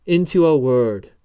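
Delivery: loud, emphatic mock British accent; fake British accent. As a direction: finish weightily in a fake British accent, a bit Agent Smith. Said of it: "more of an Agent Smith and less of a British accent".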